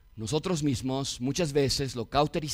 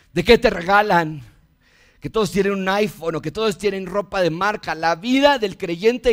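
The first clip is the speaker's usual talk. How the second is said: earnest preaching; 6 semitones higher, 6 dB louder than usual. Real, not acted. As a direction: pulpit exhortation. Preaches to the children.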